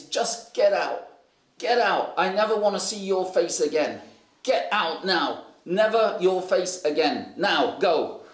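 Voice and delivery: imitated scolding, hard stresses on each command; angry dismissal. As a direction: act out throwing someone out. Angry dismissal of sleeper acted out.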